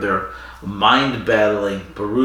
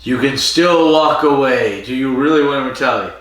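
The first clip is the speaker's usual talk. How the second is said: pressing warning; 3 semitones higher, 4 dB louder than usual. Retold or imitated. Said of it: "He's like".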